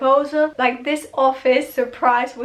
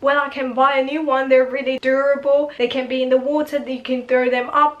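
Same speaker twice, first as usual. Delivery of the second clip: rapid babble; faster than usual. Retold or imitated. Boyfriend babbling about AirPods.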